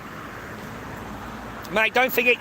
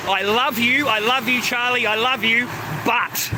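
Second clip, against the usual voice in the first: higher, sing-song I love you; higher mock sweetheart voice; mocking sweet woman; 5 semitones higher than usual. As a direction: lilt it up like a cooing girlfriend. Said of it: "You've gotta put the "but".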